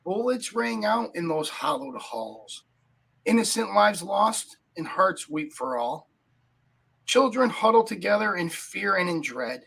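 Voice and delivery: slow, grave recited verse; solemn poem reading. Acted. Host opens the show reciting a somber poem.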